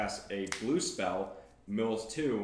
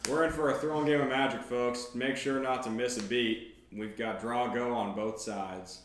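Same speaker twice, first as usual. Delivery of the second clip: play-by-play announcer hyping a match; brisk, punchy start easing into a measured finish; announcer commentary; 4 dB louder than usual. Pretend. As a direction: sell the match to the audience.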